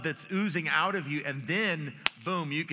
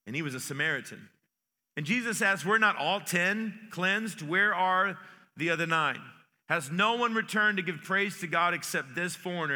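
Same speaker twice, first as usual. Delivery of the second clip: raised, lively Bible reading to the congregation; preacher reading scripture aloud. Acted. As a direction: read the passage out like a preacher. Reads scripture passage aloud.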